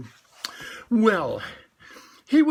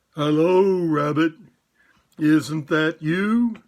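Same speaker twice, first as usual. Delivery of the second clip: calling out; 6 dB louder, slower than usual. Acted. Pooh calling into hole.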